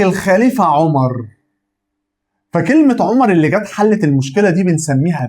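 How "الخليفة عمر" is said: الخليفة عمر slowly, resolving the confusion; teacher demo of the clarifying badal, slowly; clarified answer. Shown as a demonstration. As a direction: give الخليفة عمر as the clear fix. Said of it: "فأجي أقول لك".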